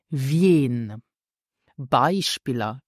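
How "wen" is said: "Wen" drawn out with a gliding vyen sound; careful pronunciation. Shown as a demonstration. Teacher demonstrates the word for learners, carefully drawn out "Wen". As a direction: model "Wen" slowly as "vyehn". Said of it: "Listen carefully again for the pronunciation".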